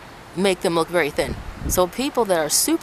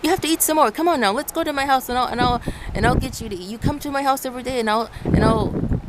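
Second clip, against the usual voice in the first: lightly voiced, higher insistent aunt pressing food on you; a mild mock of a nagging relative, pitched up; pushy relative; 4 semitones higher than usual. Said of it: "They're like".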